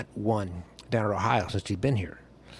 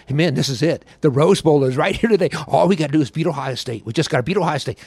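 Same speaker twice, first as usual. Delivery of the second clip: a touch higher and louder, pumped-up player; locker room hype; 4 semitones higher, 4 dB louder than usual. Retold or imitated. Player rallying teammates in the locker room, mildly pumped. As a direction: fire up the team, lightly retold.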